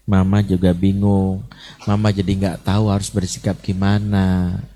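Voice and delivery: put-on name your own sadness gently to the child; mother telling her child she feels sad and confused. Shown as a demonstration. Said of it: "Jadi sebutin".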